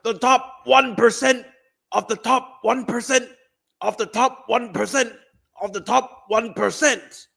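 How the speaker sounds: a hammed-up Bernie stump-speech repetition; Bernie impression.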